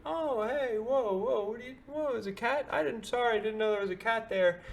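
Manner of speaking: imitating the husky owner, high and rushed; flustered dog owner. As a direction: play the startled dog owner, babbling apologies. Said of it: "the owner of the husky comes over and is like".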